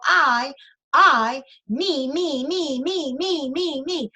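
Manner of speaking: singsong "me me me" chant; mock self-centred. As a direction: mimic someone all about themselves. Mocks self-centred talkers.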